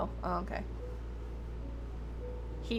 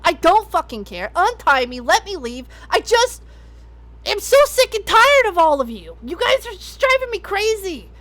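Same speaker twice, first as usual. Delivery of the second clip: angry rant. Acted. Character ranting while tied up.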